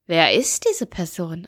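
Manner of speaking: slow, low puzzled inner voice; imitating a stranger trying to place a face; baffled. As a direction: voice someone's silent bewilderment, drawn out. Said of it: "tausend Fragezeichen in ihrem Gesicht".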